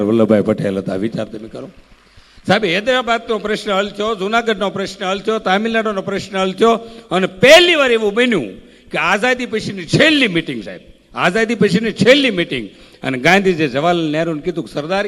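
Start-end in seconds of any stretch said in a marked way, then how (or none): 2.5-12.7 rousing oratory. Acted. Storyteller rousing the dayro audience about Sardar Patel, rising oratory. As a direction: build the crowd up line by line.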